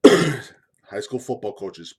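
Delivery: loud, drawn-out address; loud call-out. Shown as a demonstration. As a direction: call them out loud and slow. Repeating the address, building up.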